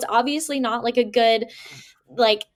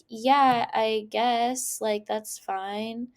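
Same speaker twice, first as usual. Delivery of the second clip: reluctant yes; 4 dB quieter, much slower than usual. Retold or imitated. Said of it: "it has to be, like, excited yes".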